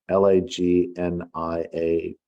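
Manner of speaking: slow letter-by-letter spelling; spelling out slowly. Shown as a demonstration. Author spelling the word lagniappe for listeners, slow. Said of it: "word called lagniappe".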